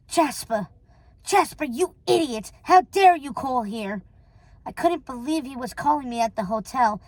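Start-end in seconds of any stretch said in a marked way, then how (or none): 0.1-4.0 indignant telephone rebuke; mildly outraged, imperious reprimand; scolding. Acted. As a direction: scold a foolish henchman. Scolds henchman on phone.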